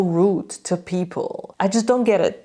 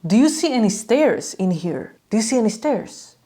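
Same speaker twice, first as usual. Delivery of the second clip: imitated mock-innocent question; mocking steward; 3 semitones higher than usual. Steward making fun of a lost fan, imitated mockery. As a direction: make fun of them with the question. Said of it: "he started making fun of me".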